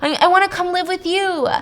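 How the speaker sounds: mock-tearful whine building to an outburst; imitating crying child. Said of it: "like, crying".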